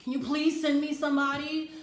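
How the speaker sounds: whiny, pleading lament to the Lord, lightly acted; a touch of a lonely, sorry-for-herself plea; mock self-pity. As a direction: moan to Jesus about being alone. Voicing lonely self-pity thoughts.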